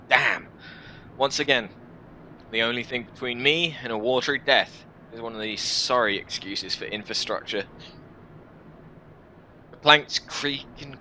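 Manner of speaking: expressive audiobook narrator with deliberate pauses; story narration. Acted. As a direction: read it as a suspenseful adventure tale. Reads game story aloud.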